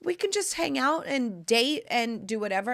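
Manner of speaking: light dude voice, quick; playful impression of the easygoing ex; imitating ex. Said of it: "And he was like".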